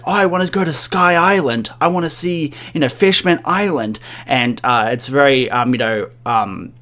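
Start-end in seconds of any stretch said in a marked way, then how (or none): 0.0-4.0 put-on lightly higher, childlike dreamy voice; a hint of a hopeful child; little girl. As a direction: sound like a small girl naming her dreams. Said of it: "she says".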